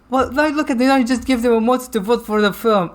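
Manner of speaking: sarcastic high voice; dry, mocking complaint. Acted sarcastic panel quote.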